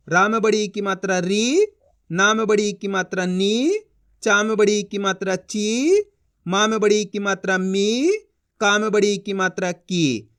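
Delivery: री, नी, ची, मी, की each held long; drawn-out final syllables. Shown as a demonstration. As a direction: chant each rule and stretch री, नी, ची, मी, की. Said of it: "इसका खींच खींच के उच्चारण करना है".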